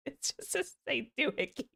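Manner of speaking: high, soft words through laughter; real giggles swallowing the words; laughing at self. Real, not acted. Streamer mocking own twang, laughing at self. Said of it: "I started laughing at myself".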